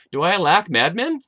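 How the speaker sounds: an indignant ruler protesting; king complaining he has madmen enough; scornful king. Acted. Quoting King Achish, scornful.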